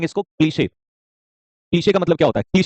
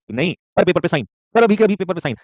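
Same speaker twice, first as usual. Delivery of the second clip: a boss forcing a signature, getting more insistent; bossy order; 4 semitones higher than usual. Retold or imitated. Boss pressures an employee to sign, bossy rising order. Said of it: "ये boss है, इसको मजबूर कर रहा है".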